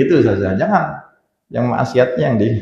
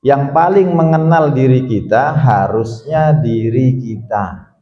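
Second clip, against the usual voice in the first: slow, deliberate delivery of each word; heartfelt, savoring; 2 semitones higher, slower than usual. Shown as a demonstration. Preacher repeats the line for listeners to take in, slowly and feelingly. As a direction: draw the words out so they sink in. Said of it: "hayati kata-kata ini".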